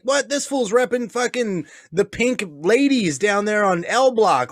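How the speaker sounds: lightly voiced rival gangster; imitated gang member. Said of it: "they're like".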